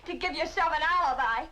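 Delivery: biting, accusing sarcasm; bitter scorn. Acted. Woman rejecting her lover's excuse, bitterly scornful. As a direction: throw his words back at him, stung.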